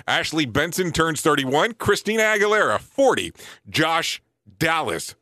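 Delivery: ordinary talk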